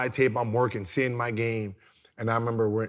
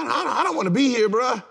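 higher, louder mock whine; a pleading call to his old college coach, higher and louder; whiny plea; 11 semitones higher, 5 dB louder than usual. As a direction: play it like a homesick kid begging to leave. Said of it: "I called Rodney Tincher from Arizona and said".

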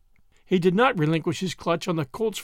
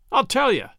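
louder and higher, bursting out; exploding; 6 semitones higher, 5 dB louder than usual. A narrator's reading. Angry Habert bursts out at the two men, loud and higher. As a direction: let it blow up out of him. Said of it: "Habert exploded".

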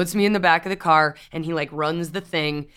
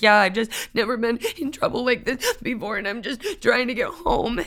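meek self; 5 semitones higher than usual. Retold or imitated. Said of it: "I was like".

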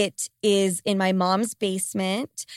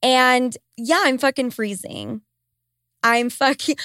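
ordinary talk

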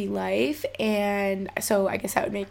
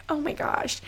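soft whispered gasp of awe; awed whisper; 6 semitones higher, 6 dB quieter than usual. Retold or imitated. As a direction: breathe it out, stunned. Reacting to psychic about heaven.

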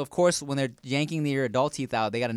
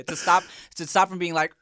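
straining voice; 3 semitones higher, 6 dB louder than usual. Retold or imitated. Acting out pain in chair.

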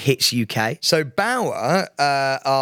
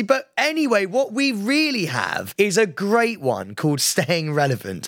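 lightly hyped presenter pivot, slowing down; radio plug; 6 semitones higher, slower than usual. Retold or imitated. Host plugging his own podcast on air, mock-hyped. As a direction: sell it slowly like a radio host.

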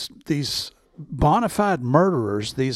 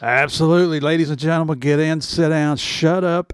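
announcer voice. Acted. Announcer intro for show.

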